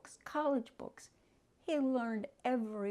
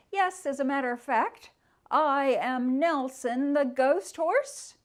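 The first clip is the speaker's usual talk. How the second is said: grand ghost voice; 4 semitones higher, 9 dB louder than usual. Acted. Nelson the ghost horse proudly introducing himself to Stargazer. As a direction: announce yourself like a proud old war horse.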